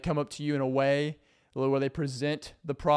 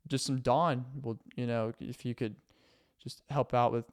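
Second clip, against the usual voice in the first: passive aggressive roommate. Acted. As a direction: drop hints sweetly, never asking outright. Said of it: "they're just like".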